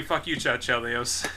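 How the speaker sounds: gravelly Statham impression. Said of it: "I can just do".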